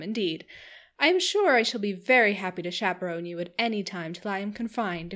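chattering Missus Palmer. Acted. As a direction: bubble over like a giddy hostess. Narrator voices Missus Palmer.

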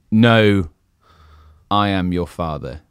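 low, soft Vader voice; lightly voiced Darth Vader; Darth Vader impression. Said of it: "most popular movie quotes".

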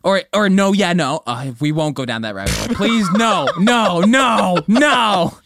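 mocking. Teasing a friend with the West Coast phrase, loud mock chant. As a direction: ham it up, parody the phrase.

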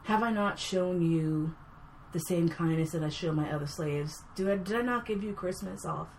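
lightly voiced calm, menacing master; calm, evil master. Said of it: "doing this whole calm and evil thing".

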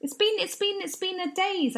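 high, dreamy and vague; high dazed voice. Acted. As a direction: float it like you're in a daze. Dazed reply to question.

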